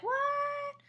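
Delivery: high-pitched mock astonished "what"; shocked reaction. Guests hear the fifty dollar prize, mock shock. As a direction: imitate a stunned crowd, pitch leaping up.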